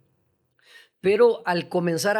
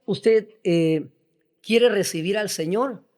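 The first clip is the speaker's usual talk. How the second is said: raised, louder voice of a pushy church lady; eager church sister; 3 semitones higher, 4 dB louder, slower than usual. Retold or imitated. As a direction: lean in like an overzealous sister. Imita a una hermana fanática. (imitando a una hermana fanática, más aguda y fuerte)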